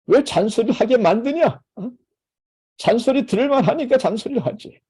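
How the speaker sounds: a mother turning the nagging back on her kid, mock-irritated; defensive scolding mom. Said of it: "엄마도 어떻게 반응해".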